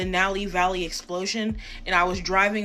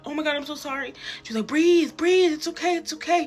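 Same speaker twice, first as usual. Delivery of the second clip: kind officer voice; 9 semitones higher than usual. Retold or imitated. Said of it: "the police officer was actually really kind".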